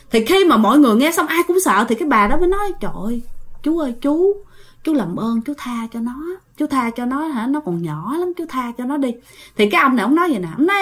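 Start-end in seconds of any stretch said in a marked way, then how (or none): 2.8-9.1 soft, begging plea; pleading. Retold or imitated. Old woman softly begging the spirit to spare the child. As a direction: beg gently for mercy.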